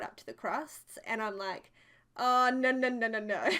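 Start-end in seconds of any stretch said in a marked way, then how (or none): 2.2-3.5 loud mock protest. Rejecting badly buttered toast.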